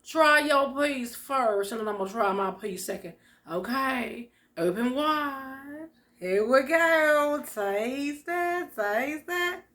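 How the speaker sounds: coaxing feeder. Pretend. Feeding viewers a snack.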